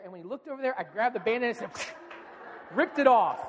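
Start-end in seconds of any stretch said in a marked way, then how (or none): 1.8-2.7 short burst of mouth-made rip; ripping noise. Retold or imitated. Dad grabbed the Band-Aid, quick ripping sound. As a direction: imitate a Band-Aid tearing off.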